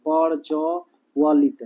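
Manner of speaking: slowly spelt out प्रज्वलित, each syllable clear; slow syllable demo. Shown as a demonstration. Teacher slowly spells प्रज्वलित for students. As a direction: drag out प्रज्वलित for dictation.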